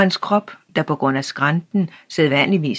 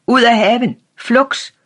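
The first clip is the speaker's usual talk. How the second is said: loud, much higher furious yell; trembling shout; 8 semitones higher, 6 dB louder than usual. A narrator's reading. Old man screams at the boy to leave the garden. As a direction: roar him out of the garden, voice shaking. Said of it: "råbte den gamle med dirrende stemme".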